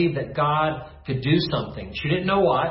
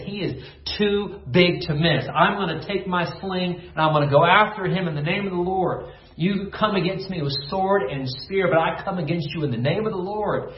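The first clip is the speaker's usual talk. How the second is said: put-on raised, rising voice of a defiant shepherd boy; bold young David; 4 semitones higher than usual. David shouting his challenge at the giant, defiant. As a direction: fling it at the giant, fearless.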